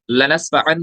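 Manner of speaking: लनस्फअन ending on a plain N; original unchanged noon. Shown as a demonstration. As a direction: finish लनस्फअन with an unheld N sound. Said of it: "असल में ये था".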